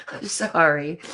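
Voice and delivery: giggling through a slow sorry; sorry said mid-giggle; laughing apology. Real, not acted. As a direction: laugh it out, can't stop.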